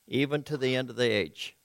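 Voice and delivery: steady Bible reading, slowing near the end; reading from the New Living Translation; scripture reading. Acted. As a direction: read the promise out carefully.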